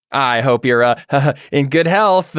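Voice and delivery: uneasy pleasantry with stilted laughter; awkwardly polite Jack. Acted. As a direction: chuckle awkwardly through a polite wish. Jack backs away, laughing awkwardly.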